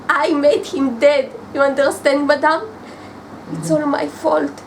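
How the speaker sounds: insistent, distressed confession; anguished self-blame. Acted. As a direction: blame yourself forcefully. Confesses guilt over the death.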